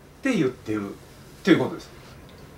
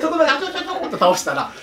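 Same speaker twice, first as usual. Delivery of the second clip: Bruce Lee cry; 14 semitones higher than usual. Retold or imitated. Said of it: "死亡遊戯、ブルース・リーの".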